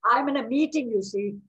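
refusing pig. Acted. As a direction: moan it like a put-upon pig. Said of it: "And the pig says".

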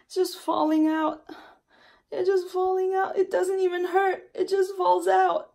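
pushing the words out loud through upset; distraught. Real, not acted. Showing viewers her hair falling out, loud and distraught.

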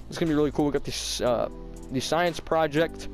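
slight lisp from freshly tightened braces. Real, not acted. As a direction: talk with a mild lisp. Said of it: "kinda lisping".

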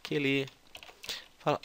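ordinary delivery

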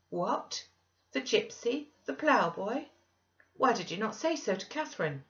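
high-pitched, incredulous questions; astonished questioning. Acted. Master astonished at who the visitor is, incredulous. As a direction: take it up in pitch, taken aback by the news.

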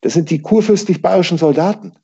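high, emphatic correction; gruff retort. A narrator's reading. Innkeeper woman correcting Peter, gruff. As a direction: hammer home who they are. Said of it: "entgegnete die Frau barsch".

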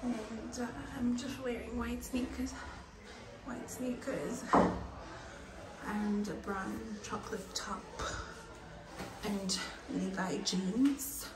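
hushed, close to the mic; quiet voice. Real, not acted.

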